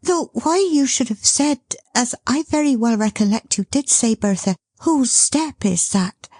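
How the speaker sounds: high, hurried nervous chatter; flustered chatter. Acted. Dot covering her agitation before the son appears, hurried. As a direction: keep talking to hide the nerves. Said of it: "talking on as fast as she could".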